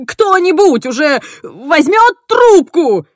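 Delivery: loud, high and slow; a loud, slow thundering demand. Acted. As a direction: bellow in exasperation. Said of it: "прогремел Генри".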